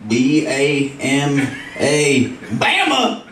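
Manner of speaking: high, excited hick yelling about Bama; dumb redneck voice. Acted. Comedian voicing a redneck voter, hyped and high-pitched. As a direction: play a thrilled illiterate redneck. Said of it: "illiterate rednecks were just like".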